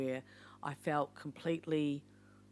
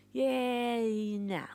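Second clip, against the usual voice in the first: lightly voiced casual yeah nah, a bit higher; blunt daughters' verdict; 6 semitones higher, 3 dB louder than usual. A hint of a daughter giving honest feedback. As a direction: toss it off like a frank daughter. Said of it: "They'll just say".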